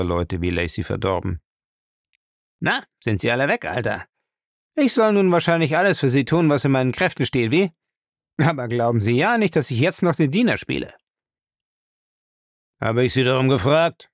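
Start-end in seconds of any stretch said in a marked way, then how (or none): 2.6-10.9 thief's pitched-up, lively voice; cheeky thief Lacey, insolent. Acted. Thief tells his master he won't play servant, insolent. 12.8-14.1 grumbling. Acted. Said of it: "brummte Bellamy".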